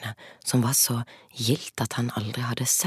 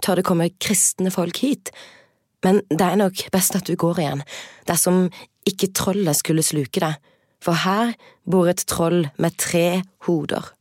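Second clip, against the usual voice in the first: higher, louder princess voice; frightened princess; 5 semitones higher, 5 dB louder than usual. Acted. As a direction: warn him urgently, high and loud.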